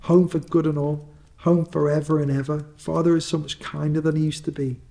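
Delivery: a little sister overflowing with joy; gleeful little girl. Acted. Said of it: "brimful of glee".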